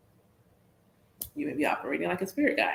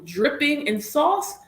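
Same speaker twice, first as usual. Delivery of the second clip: slow, high, flirtatious drawl; drawn-out saucy lilt, pitched up; 8 semitones higher, slower than usual. Shown as a demonstration. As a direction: let the words drip with flirtation. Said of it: "if their voice is dripping in sauce".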